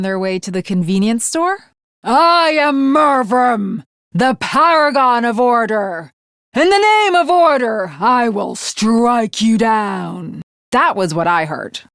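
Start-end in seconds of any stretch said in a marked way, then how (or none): 2.0-10.4 bold, slow proclamation of a name; heroic battle declaration. Acted. Mervrim proclaiming himself to the enemy, boldly. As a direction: announce yourself to the enemy with pride.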